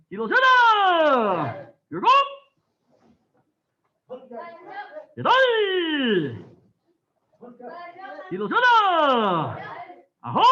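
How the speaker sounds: loud Korean count, each number punched out; shouted drill count. Real, not acted. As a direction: call every count like a drill leader. Instructor shouting counts during drill.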